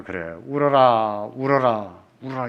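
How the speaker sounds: slow, gentle comforting; mother comforting her crying daughter, slow and gentle; soothing mother. Retold or imitated. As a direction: pat her back with the words. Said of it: "엄마가 따둑거리면서".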